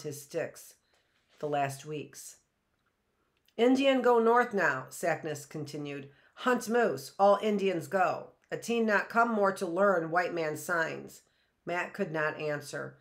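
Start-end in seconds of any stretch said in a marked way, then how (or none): 3.6-11.2 lightly voiced grave old Indian, raised; old Indian man. Sackness tells Matt the Indians go north, grave. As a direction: speak as a solemn elder, a touch louder.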